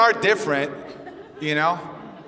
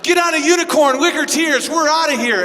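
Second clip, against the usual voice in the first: higher and louder, a mock battle cry; rallying girl-gang shout; 6 semitones higher, 4 dB louder than usual. Friends rescuing their sad friend, loud rallying cry. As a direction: hype up the whole group to storm out. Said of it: "the other girls are like".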